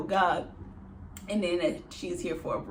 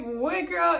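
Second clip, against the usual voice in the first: startled question; 9 semitones higher than usual. Retold or imitated. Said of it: "I'm like".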